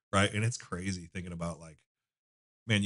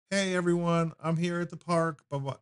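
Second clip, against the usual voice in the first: much higher, chirpy vlogger greeting to the camera; imitating a kid YouTuber; 11 semitones higher than usual. Dad mimics his daughter vlogging at the park, high YouTuber voice. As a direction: pitch way up like a little girl filming herself. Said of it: "she's talking like some fucking YouTuber".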